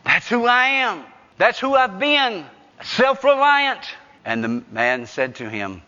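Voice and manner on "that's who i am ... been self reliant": higher, building declaration; emphatic confession. Acted. Jacob confessing who he has been, emphatic confession. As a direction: own up with mounting force.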